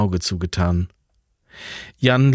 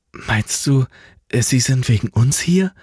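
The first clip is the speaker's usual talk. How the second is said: a touch breathless; 4 semitones higher than usual. Acted. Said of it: "fragte Alva immer noch außer Atem".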